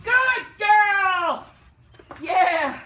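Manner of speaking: loud high praise shouts; squeaky praising a dog. Real, not acted. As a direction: cheer her on with joy. Cheering the dog.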